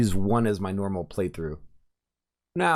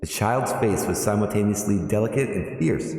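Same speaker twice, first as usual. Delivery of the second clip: storybook narration, steady and even; narrator voice. Shown as a demonstration. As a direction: read it like an audiobook narrator. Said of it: "Let's do a narrator voice".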